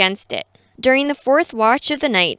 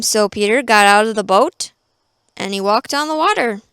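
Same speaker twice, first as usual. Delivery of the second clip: usual speaking voice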